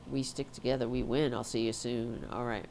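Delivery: blocked nose, congested voice; stuffed up nose. Real, not acted. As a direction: talk through a stuffed up nose. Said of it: "I'm getting stuffed up".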